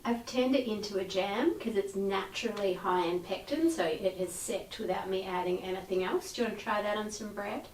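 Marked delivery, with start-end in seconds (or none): 3.9-7.7 quick breathy whisper. Real, not acted. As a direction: murmur the offer under your breath. Offering jam to tasters.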